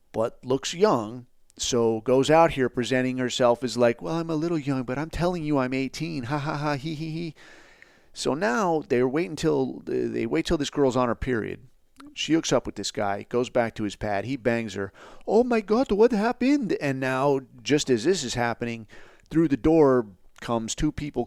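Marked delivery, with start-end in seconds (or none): 4.0-7.4 lightly voiced, higher coy girl ending in a giggle; coy young girl. Voicing the scam girl. 15.3-16.8 much higher, louder fake shock; mock shock.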